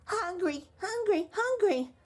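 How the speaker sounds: put-on high baby voice, demanding; hollering baby. A narrator's reading. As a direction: wail for food like a giant baby. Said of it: "The baby began to holler too".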